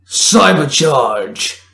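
long drawn-out battle cry; slow heroic call. A narrator's reading. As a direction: stretch the power-up call wide. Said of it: "Derek called out".

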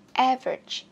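"Average" with AV hit, then falling; stress on first syllable. Shown as a demonstration. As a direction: punch the front of "Average". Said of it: "Chữ âm một".

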